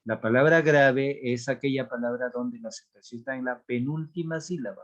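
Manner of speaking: usual speaking voice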